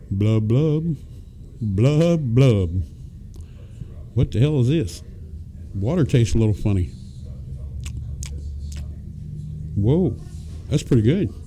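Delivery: quiet, low bubbling fish voice; bubbly forgetful goldfish voice. Pretend. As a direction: play a tipsy fish blowing bubbles. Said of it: "Wouldn't you like to be a fish".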